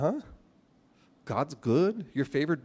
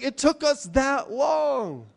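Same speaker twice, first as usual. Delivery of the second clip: rueful drawn-out; 10 semitones higher, much slower than usual. Real, not acted. Rueful story punchline.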